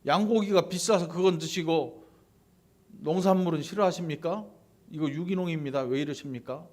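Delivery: mildly indignant mock questioning; confrontational challenge. Cain protesting his produce to God, acted confrontational challenge. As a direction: argue back, pushing early then easing off. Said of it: "따지는 것입니다".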